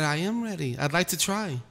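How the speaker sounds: softly retold polite plea; nice and kindly. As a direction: say it softly, a respectful request. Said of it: "real nicely and kindly".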